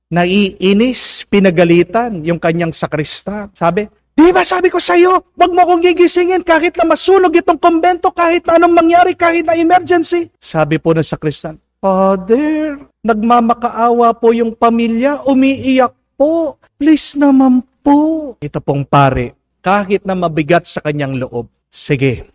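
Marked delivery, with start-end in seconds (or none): 4.2-10.3 the tired priest storms out and yells at his sacristan; furious yelling. Retold or imitated. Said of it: "nagwala. nagdabog". 11.8-18.3 higher, slow pleading voice; a sacristan pleads with the priest for a dying man; begging sacristan. Retold or imitated.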